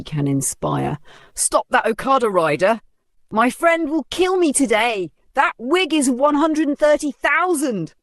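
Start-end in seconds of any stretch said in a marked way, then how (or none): 1.3-7.9 high frantic cries after the wig; frantic yelling. Acted. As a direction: chase the rider in panic. Chasing the wig.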